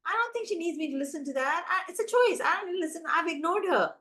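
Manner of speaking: a hint of a kid shrugging off the teacher; dismissive kid. Kids ignoring their sing-songy teacher, lightly voiced dismissive kid. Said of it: "the kids are like".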